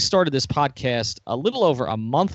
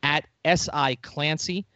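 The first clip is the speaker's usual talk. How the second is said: spelling out a handle; 3 semitones higher, slower than usual. Shown as a demonstration. Host gives the guest's handle to listeners, slowly spelled. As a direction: slowly spell out "S I Clancy", each letter apart. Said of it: "You can find him".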